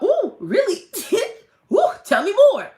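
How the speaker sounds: high, loud giddy eagerness with a laugh; hammed-up excited squeal; mock delight. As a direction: gush like hearing about riches.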